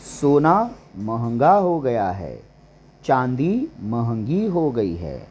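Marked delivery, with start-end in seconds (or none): none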